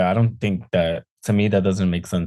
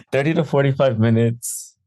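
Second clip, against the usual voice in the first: laughing; 4 semitones higher than usual. Real, not acted. Laughing repeat of the claim.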